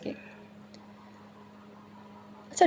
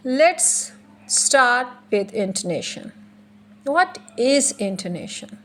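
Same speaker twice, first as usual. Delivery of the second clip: slow lecture; much slower than usual. Shown as a demonstration. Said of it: "teacher slow delivery".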